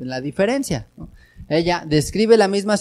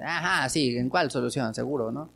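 incredulous; 4 semitones lower, 7 dB quieter than usual. Retold or imitated. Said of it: "Pesimista o negativa o de incredulidad".

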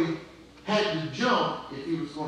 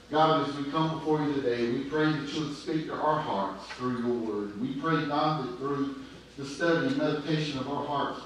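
lower, quicker, evenly flowing prayer; spoken prayer; 4 semitones lower, 4 dB quieter than usual. Real, not acted. Preacher asks God to teach the fathers, earnest spoken prayer. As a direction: pray earnestly on behalf of the room.

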